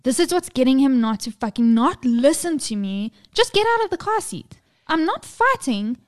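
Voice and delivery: ordinary delivery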